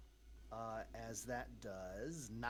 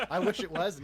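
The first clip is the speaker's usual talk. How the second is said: loud, higher, through laughter; laughing; 10 semitones higher, 15 dB louder than usual. Real, not acted. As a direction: laugh out the words. Laughing along about the voice.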